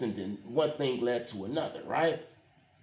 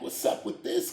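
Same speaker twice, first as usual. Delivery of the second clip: laughing retort; 3 dB quieter than usual. Retold or imitated. Retold reaction, laughing.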